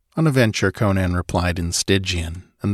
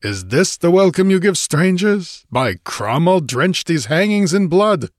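higher-pitched, indignant threat; infuriated snarling; 9 semitones higher, 3 dB louder than usual. A narrator's reading. Infuriated Cimmerian with saber drawn, snarling at his host. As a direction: build from outraged question to threat. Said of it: "snarled the infuriated Cimmerian".

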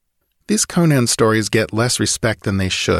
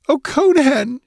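put-on high, loud wail of a girl's voice; 4 dB louder than usual. A narrator's reading. Tearful girl wails to Conan over the water, high wail. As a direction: cry out his name in distress. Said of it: "she wailed".

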